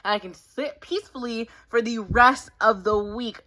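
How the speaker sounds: very high, slow, gushing winner's voice; excited high squeal. Acted.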